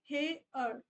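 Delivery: हे अर said as two parts, he then ar; split into two vowels. Shown as a demonstration. Teacher breaks हे अर into two vowels for class. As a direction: pull हे अर apart into its two vowels. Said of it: "अ ए की sound एक साथ आ रही है".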